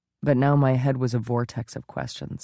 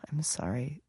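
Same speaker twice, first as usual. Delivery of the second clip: whisper; 2 semitones higher, 10 dB quieter than usual. Acted. Tearful apology to husband.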